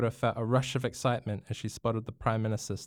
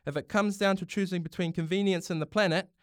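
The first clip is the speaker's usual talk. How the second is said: higher, rousing parliamentary address; passionate speech; 8 semitones higher than usual. Acted. Prime Minister addressing Parliament, a passionate speech. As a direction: argue for the planet with conviction. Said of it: "The Prime Minister's passion was clear".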